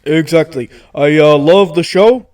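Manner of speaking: lightly voiced politician guest; Bernie Sanders. Politician guest asks hosts why he was summoned, light impression. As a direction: hurry to the end as a busy politician. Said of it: "we do racist Bernie Sanders".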